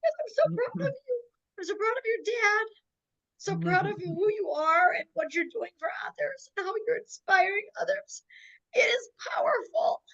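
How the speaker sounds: trying to hold back tears while praising her; real crying. Real, not acted. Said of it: "I, like, wanna cry again".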